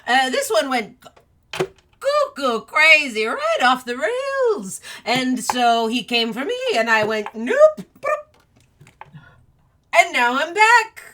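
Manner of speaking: high, loud, laughing rant; manic shouting. Acted. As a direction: rave about it with wild glee. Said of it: "and the Mad Hatter goes".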